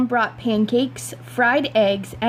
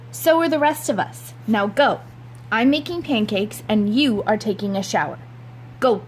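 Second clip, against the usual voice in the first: stern mom. Acted. Mother ordering her son to the shower, lightly voiced stern mom. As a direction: send him off firmly.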